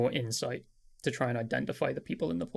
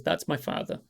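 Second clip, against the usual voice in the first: 1 soft hushed reply. Acted. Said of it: "and she says".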